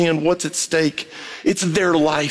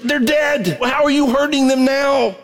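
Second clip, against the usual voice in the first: passionate plea; 9 semitones higher than usual. Acted. Pleading with grudge holders.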